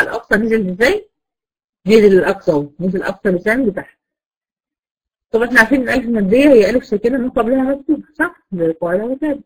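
usual speaking voice

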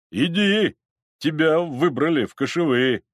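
high, forceful call; brusque summons. Acted. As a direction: order him along firmly. Crowd summons the reluctant elder.

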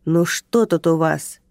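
медленно, весомо, по-начальственному; говори как большой начальник; начальственный голос. Acted. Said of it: "он проговорил начальственным голосом". (начальник важно спрашивает подчинённых)

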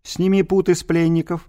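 put-on lofty, declaiming old scholar; pompous senator oratory. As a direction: proclaim it like a grand orator. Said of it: "тем же напыщенным тоном".

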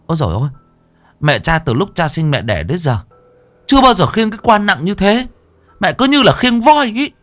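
put-on worn-out young man's exasperated whine; exhausted, panting complaint.

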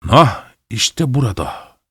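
husband growls as he raises his fist. Acted. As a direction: snarl it slowly before striking. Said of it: "diye hırıldadı".

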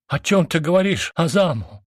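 a sister shouting in shock; cry out. A narrator's reading. Sister cries out to her furious brother, shocked and loud. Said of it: "закричала я".

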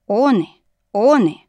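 loud, rising wail of amazement; astonished echo wail. A narrator's reading. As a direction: cry it out like a stunned echo. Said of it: "удивлённо заголосило эхо".

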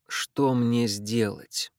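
very slow, hollow and detached; slow, not his own voice. Acted. David asks the clinging niece, very slow and hollow. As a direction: ask it as if someone else were speaking through him. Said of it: "медленно спросил он этим не своим голосом".

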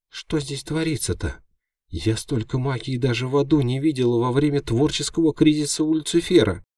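high, excited imp voice; a tiny demon babbling in amazement; chattering imp. A narrator's reading. Imp marvelling at the magic, high chatter.

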